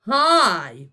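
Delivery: big loud greeting; booming. Acted. Zeus to Boyle, booming hello. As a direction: boom it out. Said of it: "boomed a vast man in an American accent".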